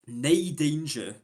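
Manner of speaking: a slow Scottish "nay danger"; drawn out like a Scot; light Scottish accent. Shown as a demonstration. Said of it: "is Scottish".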